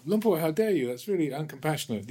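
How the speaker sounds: high, shocked outrage at the teacher; imitating an indignant American disciple; indignant protest. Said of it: "the sort of indignant, forthright American".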